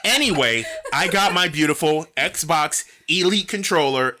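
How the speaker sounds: talking through laughter; laughing. Real, not acted. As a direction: giggle through the words.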